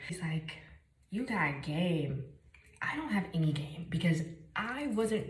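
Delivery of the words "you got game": drawn-out mock smooth compliment; slow smooth line. Imitating the employee flattering her, slow and smooth. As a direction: stretch it slowly like a pickup line.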